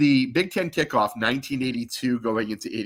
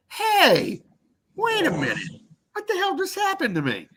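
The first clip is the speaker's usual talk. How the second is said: high-pitched retold outcry; indignant protest. Student storms in to confront the coach, indignant. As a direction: cry out in protest, voice leaping up.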